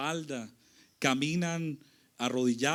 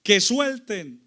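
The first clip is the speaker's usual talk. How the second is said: mildly raised imitation of a crowd; slow, louder mock crowd cry; crowd's shout; 5 semitones higher, 10 dB louder, much slower than usual. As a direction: act out the people's demand. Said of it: "todo el pueblo empezó a gritar".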